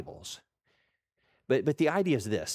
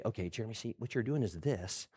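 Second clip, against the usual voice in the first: patient coach; 2 semitones lower, 3 dB quieter, faster than usual. Retold or imitated. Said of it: "the guys that would say".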